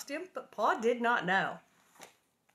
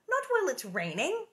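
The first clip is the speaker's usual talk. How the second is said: higher, louder and firm; firm mother's no; 9 semitones higher, 4 dB louder than usual. A narrator's reading. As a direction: close the matter firmly. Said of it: "Ma refusing".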